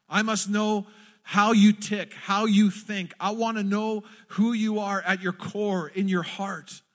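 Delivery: loud, slow pleading prayer; crying out. Retold or imitated. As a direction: plead with God, pouring your heart out. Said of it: "what Moses was crying out for".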